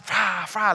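rough whooshing wave noise; imitated crashing waves. Preacher evoking the storm for the congregation, imitated crashing waves. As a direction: mimic waves smashing against the boat.

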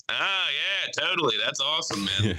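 high, polite forced enthusiasm; polite fake enthusiasm. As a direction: humor the fan politely. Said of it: "Big J being like".

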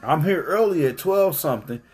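put-on high, heated scolding of a teenage daughter; angry scolding. Father scolding his daughter in the truck, angry. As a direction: lay into her, exasperated. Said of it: "I said".

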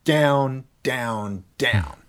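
each down stressed and falling; falling stress on every down; emphatic downbeats. Shown as a demonstration. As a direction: pound each word like a fist on a table. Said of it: "right now I'm going".

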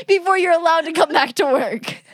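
hammed-up crying wail; mock sobbing. Joking about salmonella to her friend, mock sobbing. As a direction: fake a sob through the words.

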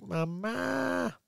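put-on high toddler voice calling Mama; baby calling Mama. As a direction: call Mama like a little kid. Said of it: "he was like".

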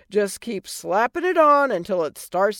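brash, mocking fairy godmother; sassy godmother voice. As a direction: tease her like a sarcastic old fairy. Godmother advice.

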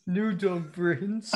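very slow, stretched repeat; slow lightly voiced shark; echoed shark voice. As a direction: drag each word out. Echoing shark quote.

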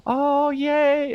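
high, gushing squeals of delight; thrilled parents fussing over their child's friends; excited parents. Acted. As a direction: coo over meeting the new friends. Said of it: "they're just like".

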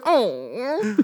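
soft, high imitated dog whimper. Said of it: "The dog whimpers back at you like he goes".

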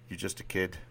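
lightly attempted Boston accent; a hint of Boston in the voice; horrible Boston accent. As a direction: try an amateur Boston accent. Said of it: "Forgive my horrible Boston accent here".

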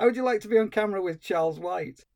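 fast, lightly voiced smarmy interviewer pitch; a hint of a brash TV presenter inviting someone on; mock TV host. Interviewer Charles White inviting a stranger on camera, light mock host. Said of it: "he shouts off camera".

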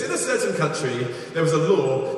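attempted African preacher accent. Preacher retelling a South African preacher's porcupine story, African accent. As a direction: lightly imitate an African accent. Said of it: "best if you do it in an African accent".

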